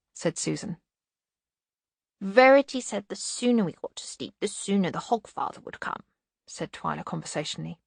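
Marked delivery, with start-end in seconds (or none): 2.2-6.0 lightly voiced little child; conversational child at bedtime; small child. A narrator's reading. Child Twyla speaks in story.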